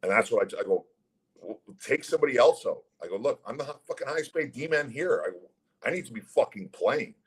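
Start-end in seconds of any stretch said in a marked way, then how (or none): 1.4-2.8 higher-pitched indignant comeback; retold protest. Retold argument over being scratched. 3.2-7.2 high-pitched, exasperated self-defence; retold protest. Retold argument over being scratched.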